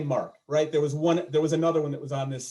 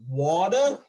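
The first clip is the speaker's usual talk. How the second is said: Philly water; 4 dB louder than usual. Retold or imitated. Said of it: "And they're like".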